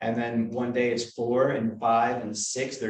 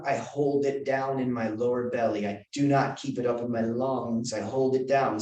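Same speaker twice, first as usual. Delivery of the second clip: holding breath. Shown as a demonstration. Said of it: "do you hear how I'm pushing it down".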